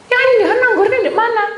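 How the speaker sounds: loud, high acted demand; exasperated bewilderment. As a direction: call out in mock alarm for what is missing. Retold search for missing grapes. (heboh bertanya, keras dan tinggi)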